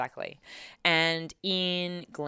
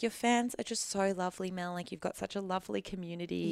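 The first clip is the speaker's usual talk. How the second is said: imitating dad; 4 semitones higher, 5 dB quieter than usual. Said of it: "as my dad continually says".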